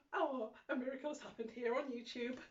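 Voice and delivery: soft high laughing joy; delighted laugh. Real, not acted. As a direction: giggle in happy disbelief. Delighted after finding pockets.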